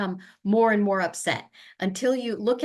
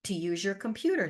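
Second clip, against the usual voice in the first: reflecting back. Shown as a demonstration. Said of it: "repeat back what it is you're hearing".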